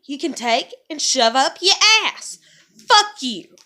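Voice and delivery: mother screaming at her judging family; furious shout. Real, not acted. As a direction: scream it at them. Rant climax.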